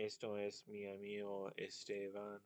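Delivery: "Esteban" in Spanish, an e sound before the st; Spanish accent. Retold or imitated. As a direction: speak the line as a Spanish friend would. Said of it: "they say your name as".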